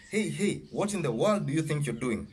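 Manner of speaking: high, indignant hey hey; confronting. Acted. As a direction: rush in and challenge him, pitch up. Father confronts the man.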